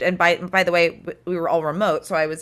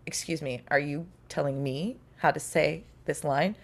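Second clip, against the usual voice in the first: indignant veteran. Retold or imitated. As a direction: put the director in his place. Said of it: "such a fucking badass mic drop moment".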